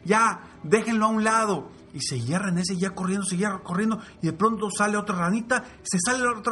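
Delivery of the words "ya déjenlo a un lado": high taunting shouts; jeering animals. Acted. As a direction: urge the last three to quit. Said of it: "seguían gritando". (gritos burlones)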